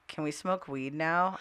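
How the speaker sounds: imitating a stoic teen, slow and soft; deadpan, stoic. Gamer son turning round in his chair to mom, deadpan. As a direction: ask it slowly, with no excitement. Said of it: "looks at me deadpan, stoic".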